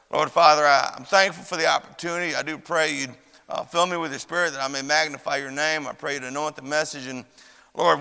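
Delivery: low, earnest prayer voice. Acted.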